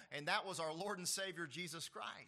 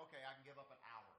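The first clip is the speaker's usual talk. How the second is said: mock casual agreement; 3 semitones lower, 11 dB quieter, much faster than usual. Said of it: "could probably say".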